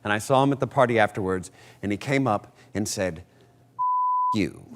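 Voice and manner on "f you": high, prim robot butler snapping it; clipped droid voice dropping a rude line; C-3PO voice. Retold or imitated. Cast member imitating a droid at the party, high robot voice. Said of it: "In kind of the C three P O voice".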